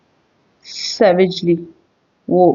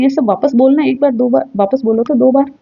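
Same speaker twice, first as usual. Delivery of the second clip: daring challenge; 5 semitones higher than usual. Acted. Wife daring husband to repeat.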